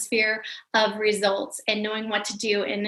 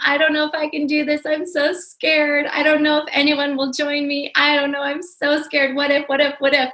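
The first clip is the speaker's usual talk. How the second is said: retold scared sobbing; 4 semitones higher than usual. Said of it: "as I cried on her shoulder saying".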